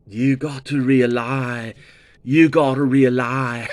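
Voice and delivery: lightly put-on British accent, imitating the singer. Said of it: "the speaker sounds so British".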